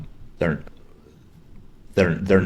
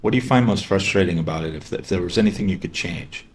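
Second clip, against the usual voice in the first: curious and concerned. Shown as a demonstration. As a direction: ask like you really care. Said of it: "you ask it with some curiosity, with some concern".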